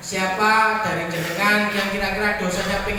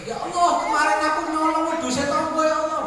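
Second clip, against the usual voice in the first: mock tearful prayer; 5 semitones higher than usual.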